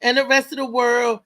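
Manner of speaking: high, loud sing-song good morning; bright morning shout-out to the listeners; excited morning greeting. Real, not acted. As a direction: call out good morning to the whole city. Radio host greets her listeners.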